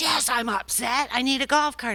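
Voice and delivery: angry, indignant scream, thrown out hot. Retelling a man demanding a reserved golf cart, imitating him screaming angrily. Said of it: "he just was screaming".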